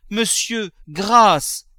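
high cry, loud at the end; begging for mercy. Acted. Mother to her husband, begging for mercy.

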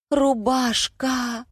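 high, long-drawn wail of misery; moaning. A narrator's reading. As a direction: stretch the word out in a pained moan. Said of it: "простонала я".

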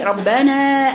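"ربنا" drawn out to show the fault; closed-sound correction. Shown as a demonstration. Teacher corrects a student's reading, drawn-out "ربنا". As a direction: stretch "ربنا" to show how it closes inside. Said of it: "قافلة من جوه".

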